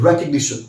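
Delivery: Recognition as REK-ug-NI-shun; correct pronunciation. Shown as a demonstration. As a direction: say Recognition with a short "ni-shun" ending. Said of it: "I repeat".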